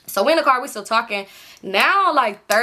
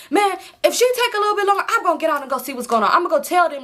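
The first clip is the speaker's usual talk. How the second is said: much higher, fast, worked-up; high mock friend voice; 7 semitones higher, faster than usual. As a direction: play the impatient friend, pitched way up. Friend threatening to leave car.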